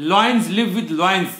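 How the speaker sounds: very slow, spaced-out quote; quoting Peter Drucker, very slow and deliberate; slow quoted maxim. Retold or imitated. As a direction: lay out the maxim word by word, slowly. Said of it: "Peter Drucker कहते हैं".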